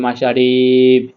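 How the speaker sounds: "মা শা রিব" ending on a stopped b; joined with sakin. Shown as a demonstration. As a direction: join it up, stretch "রি", close "রিব" on b. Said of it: "সাকিন দিয়ে মিলিয়ে পড়তে হবে". ("রিব" সাকিন দিয়ে মিলিয়ে)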